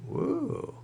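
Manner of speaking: high breathy whoop of approval; quick high woo; impressed woo. Real, not acted. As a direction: cheer the news. Reacting to motion tracking news.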